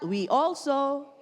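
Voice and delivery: "also" stretched slowly; slow emphasis. Shown as a demonstration. Pastor prompting the congregation to repeat, slow. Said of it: "Sabihin natin lahat".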